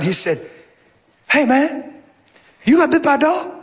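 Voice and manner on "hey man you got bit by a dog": voicing a friendly Southern maintenance man, lightly; Southern accent. Maintenance man asking the preacher about a bite, Southern accent. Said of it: "He's real Southern".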